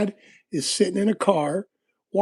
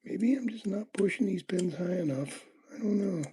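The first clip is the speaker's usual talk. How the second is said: muttered under his breath while working the pins; hushed self-talk, half to himself; whispered to himself; 2 semitones higher, 5 dB quieter than usual. Real, not acted. Lock picker whispering to himself over the pins, hushed.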